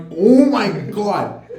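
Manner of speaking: 笑着喊出来的无奈; laughing disbelief. Retold or imitated. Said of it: "And I'm like".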